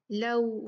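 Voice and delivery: लऊ gliding from a into round u; rounded waw. Shown as a demonstration. Teacher prompting round lips, लऊ with a clear u glide. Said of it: "होंठों को गोल करें".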